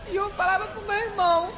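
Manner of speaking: tearful, half laughing through tears; telling it through real tears; crying while speaking. Real, not acted. Healed woman tells the pastor of her illness, crying. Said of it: "ela tá aqui chorando".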